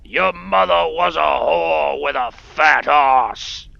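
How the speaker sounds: loud, high, drawn-out jeer; mock taunting yell. Player heckles a game character, slow loud mock taunt. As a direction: bellow the insult slowly for fun.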